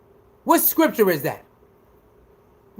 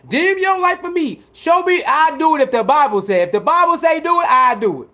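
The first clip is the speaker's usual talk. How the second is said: mocking haters; 3 semitones higher than usual. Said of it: "Y'all out here making shit up".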